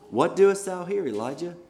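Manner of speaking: high and loud, a commanding divine question; God demanding to know why Elijah hides; booming voice of God. Acted. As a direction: call out to him like thunder from the mountain. God's word questions Elijah.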